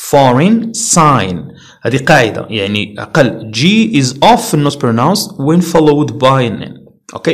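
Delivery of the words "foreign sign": foreign ending in a plain N; no G in foreign or sign; silent G. Shown as a demonstration. Teacher reading examples for learners, silent G.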